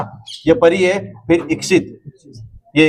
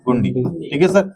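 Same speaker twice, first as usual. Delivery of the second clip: slow emphasis; much slower than usual. Shown as a demonstration. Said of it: "क्या लग जाएगी?".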